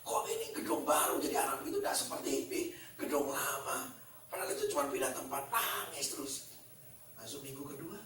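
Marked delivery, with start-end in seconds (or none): 0.0-6.3 mock stressed teacher. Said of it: "gurunya stres".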